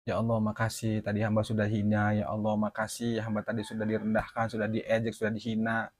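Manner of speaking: berdoa lirih dengan nada rendah; doa pasrah. Retold or imitated. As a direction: bersyukur kepada Allah dengan lembut. Menirukan doanya setelah dimaki. (menirukan doa pribadi yang pasrah)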